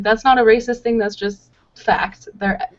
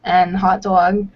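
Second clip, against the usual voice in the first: New York accent demo; much slower than usual. Shown as a demonstration. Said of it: "add a lot of letters".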